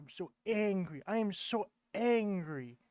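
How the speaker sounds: rising into a hammed-up angry complaint; mock anger building. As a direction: build from grumble to mock rage, stress am.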